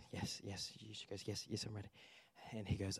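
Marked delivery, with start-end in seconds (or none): 0.4-0.7 soft, low mock-timid yes; meek assent. Client assuring the counselor she's ready, meekly. 1.3-1.9 soft, low mock-timid yes; meek assent. Client assuring the counselor she's ready, meekly.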